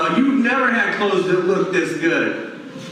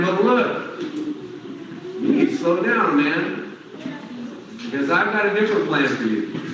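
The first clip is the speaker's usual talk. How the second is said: gentle correction. Retold or imitated. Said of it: "Kelly is saying".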